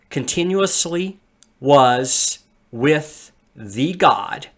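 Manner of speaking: slow, stressing "continuously" each time; word-for-word translation. Shown as a demonstration. Teacher walks students through the Greek word order, slow and deliberate. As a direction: lay out "In beginning continuously was the Word" in measured beats. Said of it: "a loose translation of that in the word order".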